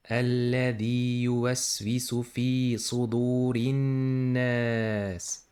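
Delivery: tajweed recitation; Quran recitation. Shown as a demonstration. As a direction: recite it in measured Quranic chant. Recites the full phrase.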